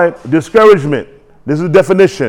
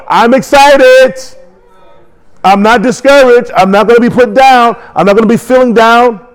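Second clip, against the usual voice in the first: high, rousing proclamation; excited preaching; 4 semitones higher than usual. Shown as a demonstration. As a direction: build the congregation up with high-pitched fervor. Preacher models excitement for congregation.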